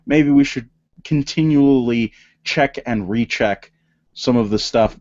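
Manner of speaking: lightly voiced mild suggestion; a touch of innocent asking; mock innocent suggestion. Mocking how skeptics get called morons, mild innocent tone. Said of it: "when we say".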